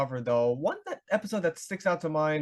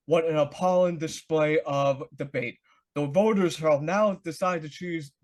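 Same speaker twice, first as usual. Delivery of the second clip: moderator voice; slower than usual. Retold or imitated. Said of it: "it goes like this".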